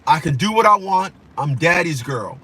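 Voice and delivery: defiant spoiled kid, mildly voiced; a hint of the daddy's girl talking back; sassy and entitled, lightly imitated; bratty daughter attitude. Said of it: "that attitude that my own daughter had".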